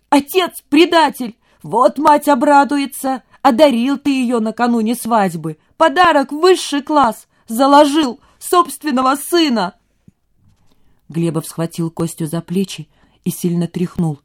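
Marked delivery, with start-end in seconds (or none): 0.1-9.8 high, loud, bitter mocking shout; hysterical accusation. A narrator's reading. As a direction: sneer and yell at the father.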